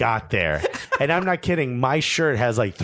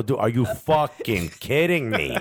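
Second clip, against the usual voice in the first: slow, emphatic exasperation without raising the voice; retold angry outburst; 2 semitones lower, slower than usual. Diner retelling his repeated complaint, slow exasperation. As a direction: spell out the disbelief slowly, mildly angry. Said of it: "I kept getting louder".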